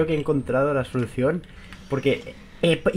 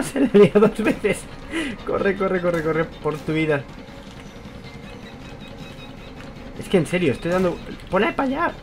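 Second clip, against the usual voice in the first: panicked, breathless urging; hurry, something's right behind you; being chased; 5 semitones higher than usual. Real, not acted. Fleeing monster in horror game. (huyendo con pánico)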